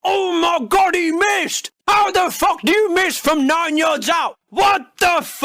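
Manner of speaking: mock frustrated shout at the telly; hammed-up moaning supporter; complaining fan. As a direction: couch fan yelling at a missed shot. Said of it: "probably complaining as you did".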